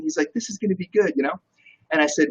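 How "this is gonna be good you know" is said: imitated Italian accent, pitched up; hint of Italian accent; Gianmarco. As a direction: mimic an amused Italian friend. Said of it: "He's got this awesome Italian accent".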